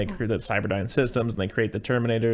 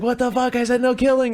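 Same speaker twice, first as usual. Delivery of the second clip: put-on high, loud, outraged kid's yell; exasperated yell; 13 semitones higher, 5 dB louder than usual. John yelling at the Terminator about the shot guard, high outraged voice. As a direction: blow up at him in disbelief.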